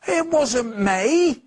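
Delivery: put-on high, loud and slow childish protest; cried out. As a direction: protest loudly that it wasn't him. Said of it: "cried Nate".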